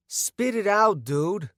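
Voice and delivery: scowling. A narrator's reading. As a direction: push him to talk, irritated. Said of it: "with an apish scowl".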